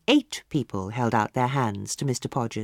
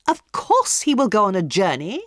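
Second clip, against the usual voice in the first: higher, louder scornful echo; scoffing hostess; 6 semitones higher, 5 dB louder than usual. A narrator's reading. Hostess scornfully repeating the palmist's prophecy, higher and louder. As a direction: throw his words back at him.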